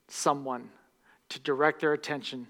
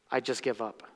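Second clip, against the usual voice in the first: mock defeated; 5 semitones lower, 6 dB quieter than usual. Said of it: "attitude that I think is really dangerous".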